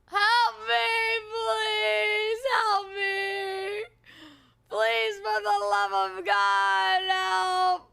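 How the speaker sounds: calling out, half playing; mock yell for help. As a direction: shout for rescue with a pleading edge. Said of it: "I'm yelling".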